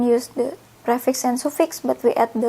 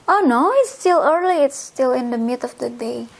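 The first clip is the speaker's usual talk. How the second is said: polite host protest. Shown as a demonstration. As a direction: gently insist it's still early. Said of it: "the owner will say".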